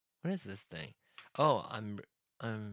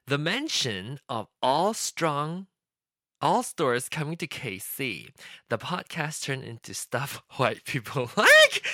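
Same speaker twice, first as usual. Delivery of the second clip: slow reading; 2 semitones higher, 7 dB louder, slower than usual. Shown as a demonstration. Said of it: "The mention of all stores coming to K C".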